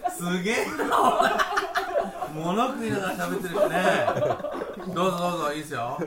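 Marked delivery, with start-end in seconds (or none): 0.1-4.9 laughing. Real, not acted. Reacts to host eating on air.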